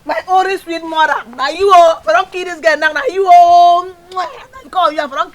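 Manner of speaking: mocking whine. Mocking mother loudly.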